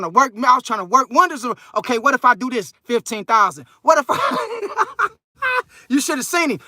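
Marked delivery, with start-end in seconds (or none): 3.8-5.1 mock dentist voice. Dentist haggling, imitated.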